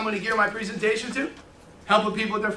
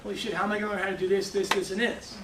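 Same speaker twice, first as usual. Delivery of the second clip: overwhelmed; 6 dB quieter, faster than usual. Retold or imitated. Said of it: "I'm laying in bed that night going".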